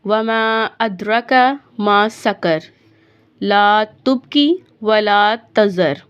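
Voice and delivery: slow, measured recitation, phrase by phrase; deliberate teaching recitation with pauses; Quran recitation lesson. Shown as a demonstration. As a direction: recite for learners with long held vowels.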